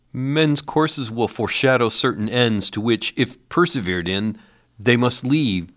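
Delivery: put-on desperate old man arguing his case; Scrooge. A narrator's reading. Scrooge reasons with spirit.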